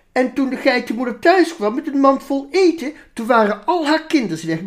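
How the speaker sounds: dramatic storytelling. Acted. Minister reading the goat tale to the ladies, theatrical. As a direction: build the drama of the wolf story.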